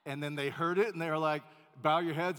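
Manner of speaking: loud storyteller build; loud retelling. Retold or imitated. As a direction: belt it out as the room hushes. Restaurant crowd hears boy.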